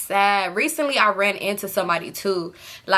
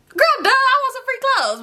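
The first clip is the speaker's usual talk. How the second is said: high squeaky put-on voice, much higher; mock greedy aside; 14 semitones higher than usual. Telling viewers she wanted free clothes, in a high mock voice. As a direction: toss it off in a silly high voice.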